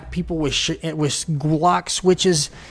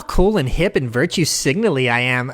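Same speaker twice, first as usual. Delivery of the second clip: mock hip liberal. Mocking liberals who fit in, light smug mock. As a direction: play the virtue-signalling hipster. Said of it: "fit in with that cool".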